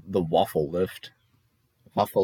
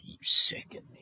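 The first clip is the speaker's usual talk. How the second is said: whispered disgust. Retold or imitated. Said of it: "he'd be like".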